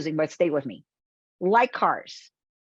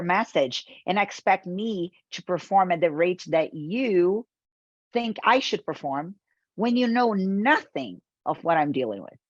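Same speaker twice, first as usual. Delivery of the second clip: mock angry prospect. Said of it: "will look at you and say".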